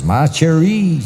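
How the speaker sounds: high French endearment; French girl. Acted. French girl to her lover after lovemaking, high French accent. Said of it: "The French girl says".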